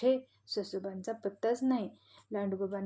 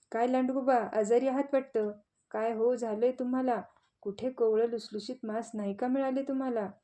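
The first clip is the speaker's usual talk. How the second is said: teasing on purpose. Acted. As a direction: needle the sick wolf. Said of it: "ससोबांनी मुद्दाम लांडगोबांना विचारले".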